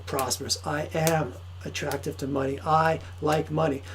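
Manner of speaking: a lightly voiced self-help tape; affirmation tape voice. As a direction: murmur it like a sleep tape. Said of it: "subconscious tapes right now that says".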